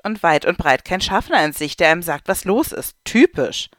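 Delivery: mildly cross rant; grumbling man. Acted. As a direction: complain about the missing conductor. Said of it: "Der Mann neben ihr schimpft".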